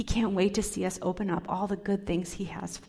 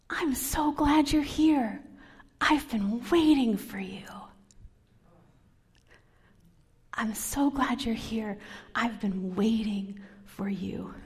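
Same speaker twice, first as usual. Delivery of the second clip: tender welcome; slower than usual. Retold or imitated. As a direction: welcome a child with open arms. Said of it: "She would open her arms wide and say".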